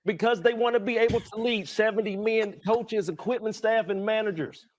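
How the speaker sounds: impassioned plea. Acted. Player pleading emotionally on TV.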